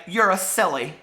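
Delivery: playful read-aloud taunt, a touch of Edith's sass; lightly voiced cheeky girl. Reading Edith's line to Mister Bear, lightly cheeky. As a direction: tease him lightly, as the girl in the book. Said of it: "I love that".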